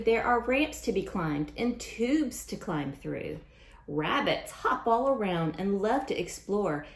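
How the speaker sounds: lively picture-book read-aloud; sing-song storytime rhyme; reading to children. A narrator's reading. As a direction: read the rhymes brightly to a class.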